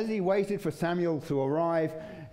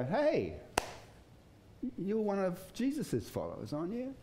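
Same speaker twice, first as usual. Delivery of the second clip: put-on servant girl accusing; 6 semitones higher, 4 dB quieter than usual.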